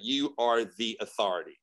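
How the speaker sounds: measured, understated pronouncement; voice of authority. Retold or imitated. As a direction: repeat it as a calm, certain statement. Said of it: "just like that".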